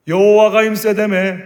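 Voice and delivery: loud, slow, drawn-out jeer; mocking taunt. Goliath jeering at the army each morning, mocking taunt. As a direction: taunt them about their God. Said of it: "엘리압도 조롱당했으니까".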